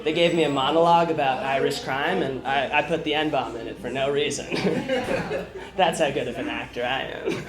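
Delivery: lightly voiced Nicholson impression; Jack Nicholson. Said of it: "I'll start with Jack Nicholson".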